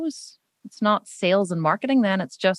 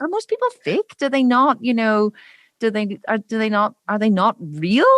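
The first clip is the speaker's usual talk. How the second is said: worked-up disbelief. Retold or imitated. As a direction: pitch jumps up in baffled outrage. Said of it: "I get really like".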